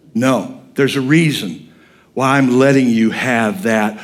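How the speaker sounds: low, measured reply with long pauses; God answering Paul. Retold or imitated. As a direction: answer the pleading calmly and firmly, pitch dropped. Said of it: "And God finally says".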